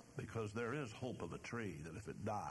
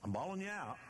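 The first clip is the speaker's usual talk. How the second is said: bawling out; 8 semitones higher, faster than usual. Retold or imitated. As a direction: let the rebuke ring out hard. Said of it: "even though he just bawled them out".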